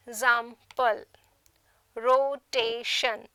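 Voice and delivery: example, rotation slowly, one syllable at a time; ex-am-ple, ro-ta-tion with gaps between syllables; split into syllables. Shown as a demonstration. Teacher showing trisyllabic words, split syllable by syllable. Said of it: "are trisyllabic".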